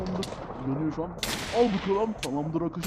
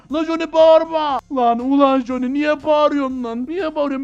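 high, loud indignant shout; yelling back; 7 semitones higher, 10 dB louder than usual. Acted. Player scolds Johnny for shouting, yelling back. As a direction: yell it back at a screamer.

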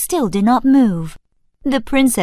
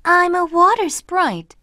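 gentle sprite; 6 semitones higher than usual. Acted. Sprite answers lumberjack.

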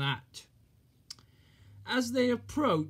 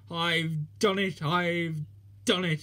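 slow, louder triumphant cry; proud puff; 3 dB louder than usual. Acted. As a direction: announce the win proudly, slowly. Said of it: "he puffed proudly".

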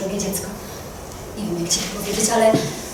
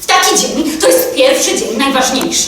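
raised, louder voice over the quarrel; loud insistent reproach; 3 semitones higher, 7 dB louder than usual. Acted. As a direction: insist loudly to restore order. Repeats appeal louder over the quarrel. (głośny, stanowczy wyrzut)

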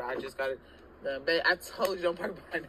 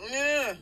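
short mock grunt, pitched up and punched; imitated grunt; 10 semitones higher, 7 dB louder than usual. Mocking her partner's grunting for the camera, a quick imitated grunt. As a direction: mimic his little grunt in one burst. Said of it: "he doing his little, grunting".

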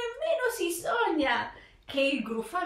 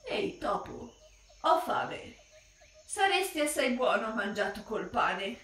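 monster voice; 3 semitones lower, 4 dB quieter than usual. Acted. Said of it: "Il mostro esclamò".

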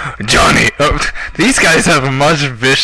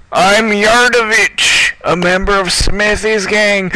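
high, theatrical villain taunt; 9 semitones higher, slower than usual. Acted. Villain gloats at the heroes in a high taunting voice. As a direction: crow at the hero in a high mocking voice. Gamer voicing villain dialogue.

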